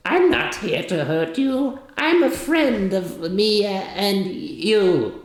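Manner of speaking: high, slow little goblin pleading friendship. Acted. Goblin assuring the worried soldiers, high and slow. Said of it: "the goblin goes".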